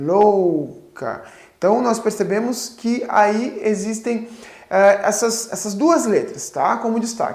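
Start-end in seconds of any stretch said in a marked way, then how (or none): 0.0-1.2 louca stretched out very slowly, drawn out. Teaching how a word is pronounced, saying "louca" very slowly. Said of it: "pronunciarmos bem devagar".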